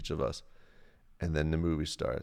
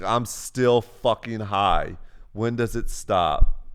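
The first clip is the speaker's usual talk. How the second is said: slow, dragged-out and dazed; slow groggy; 6 dB louder, much slower than usual. Retold or imitated. Girlfriend texting the morning after, slow and groggy. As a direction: still wrecked the next morning.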